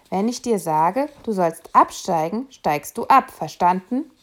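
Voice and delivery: put-on a conductor ordering the boy off the tram; stern order. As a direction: lay down the law to the boy.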